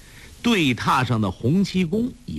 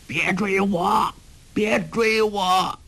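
much higher, slow, fleeing cry; frightened pleading; 10 semitones higher, slower than usual. A narrator's reading. Ouyang Feng cries out as he flees his shadow, frightened. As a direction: beg the shadow to stop chasing you. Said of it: "隐隐听到他的叫声".

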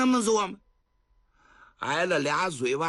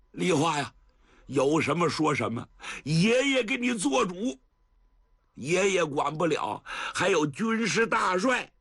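tender grandpa; 5 semitones higher than usual. Acted. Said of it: "真有点心疼啊".

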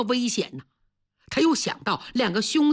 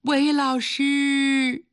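student cries for help; 5 semitones higher, slower than usual. A narrator's reading. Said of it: "又有个学生喊".

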